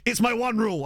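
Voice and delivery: "It's my one rule!" sung out high and triumphant; gleeful catchphrase. Retold or imitated. Teasing his girlfriend with his running bit, triumphant. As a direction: crow the catchphrase like a victory. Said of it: "and I'll be like".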